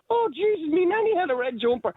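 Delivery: high, gasping mock client; gullible client. Mimicking a grieving client who falls for the psychic, high and breathless. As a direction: jump way up, wide-eyed.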